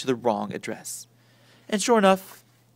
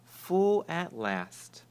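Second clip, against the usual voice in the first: observed; 4 semitones higher, much slower than usual. A narrator's reading. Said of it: "observed Father".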